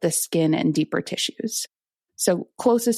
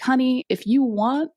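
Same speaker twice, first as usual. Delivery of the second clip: higher-pitched, hammed-up Long Island Italian accent; 6 semitones higher than usual. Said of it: "he has big Italian guy, Long Island accent".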